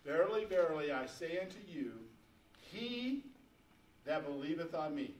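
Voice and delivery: measured, slow Bible reading; slow scripture reading. Real, not acted. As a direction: read slowly with deliberate pauses. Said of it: "I'm gonna read this real slow".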